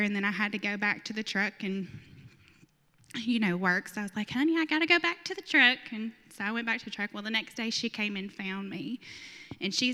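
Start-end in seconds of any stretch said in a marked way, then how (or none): 4.3-5.8 high, quick, louder retold excuse; talking to child. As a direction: lightly act out sweet-talking a little girl. Retelling excusing herself to little girl.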